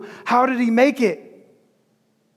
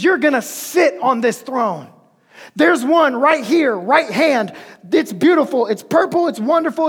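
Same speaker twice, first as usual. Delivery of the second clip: voicing God, delighted; 3 semitones higher than usual. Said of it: "God had been promising".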